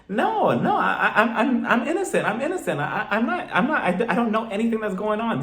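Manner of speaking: high, halting, half-laughing mock sob; mock tearful stammer. Jen, grilled by Mary, stammers innocence in a mock tearful voice. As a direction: play Jen fumbling her words on the edge of tears. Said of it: "her voice starts cracking".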